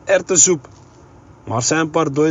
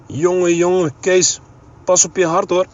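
laughing father; 3 semitones higher, 3 dB louder than usual. A narrator's reading. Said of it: "lachte de heer Brummer".

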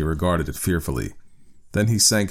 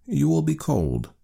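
slower, higher-pitched tender concern; 10 semitones higher than usual. A narrator's reading. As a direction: gently coax your wife out of the cold. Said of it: "he said tenderly".

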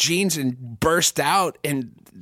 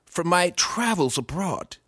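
a lightly voiced genteel father, with a few breathy asides; a comedian on a podcast plays his co-host's dad phoning his son, lightly genteel; friend's dad impression. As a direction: play a doting, over-refined dad calling his son. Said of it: "I'll try to do your dad".

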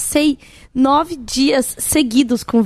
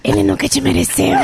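Marge's sisters impression; 3 semitones higher than usual. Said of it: "aquela voz das irmãs da Marge Simpson".

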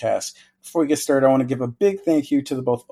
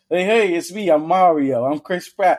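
mock celebrity voice; 4 semitones higher, 3 dB louder than usual. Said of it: "you did a little voice".

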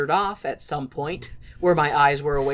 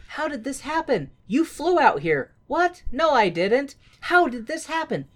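mock dumb Guido; 8 semitones higher than usual. Mocking Guido's dumb question.

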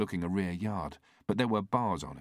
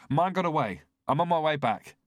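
calling into radio; 8 semitones higher, 6 dB louder than usual. A narrator's reading. Officer reporting into radio mic.

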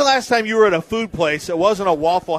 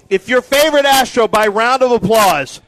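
raised, loud emcee call; calling to the crowd; 4 dB louder than usual. Real, not acted. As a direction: put the question out to the room. Putting applause poll to crowd.

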